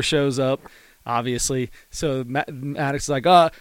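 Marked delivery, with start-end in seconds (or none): 3.3-3.5 high-pitched mock hillbilly accent, hollering at the crew. Retired pitcher in disguise yelling at film crew, high hammed-up hillbilly accent. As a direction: ham up a hillbilly groundskeeper voice, pitched up. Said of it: "like, hillbilly accent".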